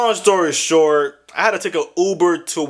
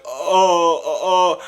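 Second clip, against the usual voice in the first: dumb stammer; much slower than usual. Retold or imitated. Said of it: "this dumb look on her face".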